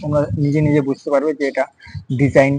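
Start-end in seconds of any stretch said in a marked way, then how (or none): 2.2-2.5 "ডিজাইন" with the g left silent. Shown as a demonstration. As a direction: say "ডিজাইন" ending in a plain n, no g sound. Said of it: "জিটা কোথায় silent আসছে".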